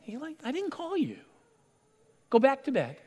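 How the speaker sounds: drowsy Eli sending Samuel back to bed; sleepy old priest. Acted. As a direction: brush the boy off half asleep. Sleepy old priest answers boy.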